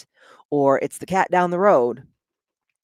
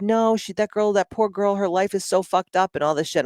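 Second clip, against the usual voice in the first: higher mom voice gushing; 5 semitones higher than usual. Retold or imitated. Mom gushing about masseuse's life.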